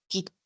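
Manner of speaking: "kite" split by a silent stop, "kit...te"; a long gap before the T of "kite"; doubled T in kite. Shown as a demonstration. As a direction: cut "ki" short, hold, then release "te". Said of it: "los tres kite que hay".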